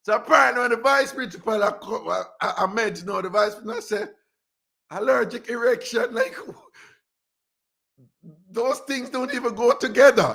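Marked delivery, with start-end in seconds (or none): 4.9-10.3 giggling through the words; laughing retold quote. Retelling the mixup to listeners, laughing. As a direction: laugh it out in disbelief.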